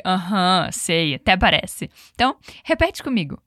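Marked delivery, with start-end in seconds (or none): 0.0-1.1 ironic. Retold or imitated. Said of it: "parece que ele foi meio irônico".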